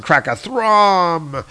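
drawn-out booming crash noise; comic-book sound effect. Acted. Host voicing a thunderclap from the comic, drawn-out boom. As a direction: stretch the last syllable out long.

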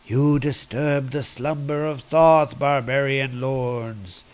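solemn god banishing intruders, mildly; a touch of grand, measured proclamation; lightly voiced stern god. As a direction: pronounce it like an ancient god, lightly. Voices the god Thoth in retelling.

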